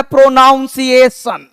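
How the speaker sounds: प्रोनाउंसिएशन with "naun" in the middle; common mispronunciation. Retold or imitated. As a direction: say प्रोनाउंसिएशन wrongly, keeping the "nouns" sound. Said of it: "बहुत सारे हिंदुस्तान के लोगों को हमने देखा है बोलता है". (प्रोनाउंसिएशन का गलत उच्चारण, बीच में "नाउन")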